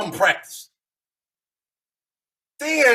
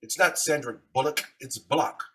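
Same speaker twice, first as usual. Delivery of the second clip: imitating Sandra Bullock; 6 semitones lower, 7 dB quieter than usual. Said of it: "she's gonna say".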